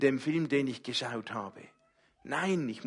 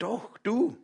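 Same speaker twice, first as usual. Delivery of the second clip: much higher, firmer answer; high, emphatic reply; God's insistent voice; 10 semitones higher than usual. Pretend. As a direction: insist lovingly, lifted up. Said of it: "Die Stimme Gottes".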